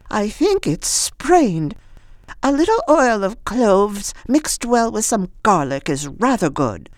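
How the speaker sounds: high, lightly voiced old woman. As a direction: chirp it like an eccentric old lady.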